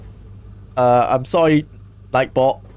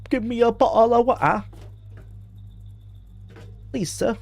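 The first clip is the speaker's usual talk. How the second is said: high, hammed-up beggar's plea in a British accent; pitiful street beggar, played for laughs; mock water beggar; 10 semitones higher, 3 dB quieter than usual. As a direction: beg in a put-on high voice. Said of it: "any water beggars who are like".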